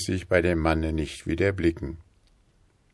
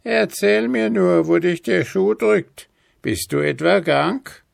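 hohe, fürsorgliche Altweiberstimme; alte Frau; 13 semitones higher, 6 dB louder than usual. A narrator's reading. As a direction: neugierig nachfragende alte Frau. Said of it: "versetzte die Alte". (hohe Stimme einer alten Frau)

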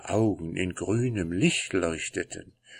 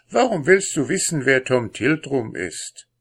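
curious wife; 6 semitones higher, 4 dB louder than usual. Acted. Wife questions husband.

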